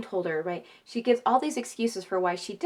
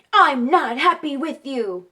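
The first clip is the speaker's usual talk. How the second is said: imitating grumpy four-year-old; 5 semitones higher, 9 dB louder than usual. Four-year-old talking back.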